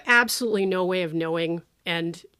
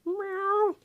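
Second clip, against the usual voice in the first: mock meow; 12 semitones higher than usual. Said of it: "throughout that scene you hear".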